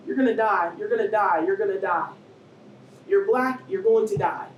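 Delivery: loud, insistent, hammered repetition; voiced death sentence. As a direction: pound it in like a verdict on a bold headline. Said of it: "That's what it sounded like".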